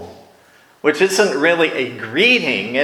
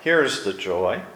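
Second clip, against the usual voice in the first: reassuring therapist. Retold or imitated. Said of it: "The therapist would say".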